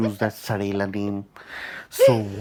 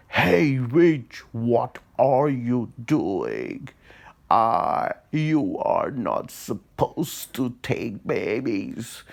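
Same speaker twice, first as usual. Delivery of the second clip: put-on louder, slow scolding old man; stern old man; 3 semitones higher, 4 dB louder, much slower than usual. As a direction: confront the witch with a loud stern call. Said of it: "And then he said".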